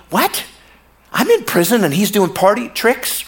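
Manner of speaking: mock outrage at party tricks; indignant disbelief. Preacher voicing John's indignant disbelief in prison. John reacts to Jesus' miracles.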